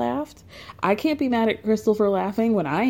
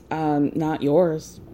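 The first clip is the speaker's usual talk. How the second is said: slow, low retort in a retold quarrel; low and unhurried mock put-down; deadpan comeback; 5 semitones lower, much slower than usual. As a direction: imitate a cool, unbothered comeback, drawn out. Retells Crystal's cool comeback.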